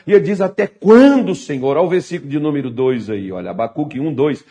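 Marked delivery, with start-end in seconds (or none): 0.4-1.8 loud cry on QUANDO, dropping on Senhor; brief raised-voice plea to God. Acted. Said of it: "ele faz uma oração e ele grita". (clamor em voz alta)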